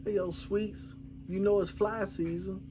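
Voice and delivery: straight face. Retold or imitated. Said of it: "try to hold a straight face".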